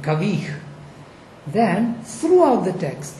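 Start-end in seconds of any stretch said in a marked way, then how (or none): 0.0-0.5 "Kavich" stressed on its second syllable. Shown as a demonstration. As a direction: put the weight on the end of "Kavich". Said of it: "stress falls on the second syllable".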